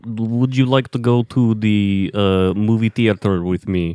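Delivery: mock Russian accent; jokey Russian accent, lightly done. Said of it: "Give us your best Russian accent".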